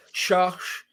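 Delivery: Chartres said the French way, as "Sharsh"; French pronunciation. Shown as a demonstration. Podcaster naming a planned drop zone, French pronunciation. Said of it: "the French pronounce it Chartres".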